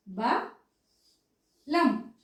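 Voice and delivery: బలం as బ, long pause, లం; very slow, broken బలం; syllable by syllable. Shown as a demonstration. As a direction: dictate బలం in two separate pieces. Teacher splits word into syllables.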